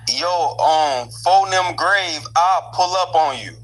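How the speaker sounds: put-on a mild try at a Black American street accent; lightly done Black American accent on request; attempted Black American accent. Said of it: "give me a sentence that sounds like us with our accent".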